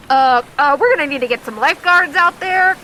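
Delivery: fast, high, loud flustered announcer. Acted. Announcer calling for lifeguards, fast and flustered. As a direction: rattle it off in a panic. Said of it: "you hear the announcer go".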